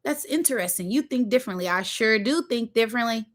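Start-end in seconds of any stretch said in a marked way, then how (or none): 0.0-1.7 imitating a puzzled man. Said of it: "but he just slowly".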